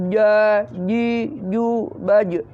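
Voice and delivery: "Ja" with the breath held in the J; held-back jim. Shown as a demonstration. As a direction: hold back the air on each J of "Ja, ji, ju". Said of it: "Nah, ditahan sedikit". ("Ja, ji, ju" ditahan sedikit)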